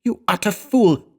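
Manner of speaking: high-pitched, strained rebuke; shocked outburst, pitched far up. A narrator's reading. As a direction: gasp it out in appalled disbelief. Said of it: "shocked voice".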